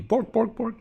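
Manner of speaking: goofy mock Swedish Chef, last bork squeaking high. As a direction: bork it out like the Muppet chef, pitch jumping up at the end. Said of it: "the Swedish Chef voice".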